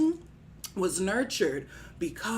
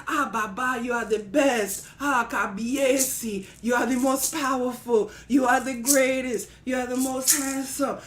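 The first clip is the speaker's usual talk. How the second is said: hammed-up flattery in a pleading chant; buttering up; 2 semitones higher than usual. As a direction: heap praise on, begging as you go. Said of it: "Needed a little more buttering up".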